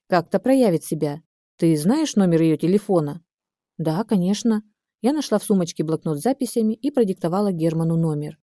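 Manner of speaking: plain reading voice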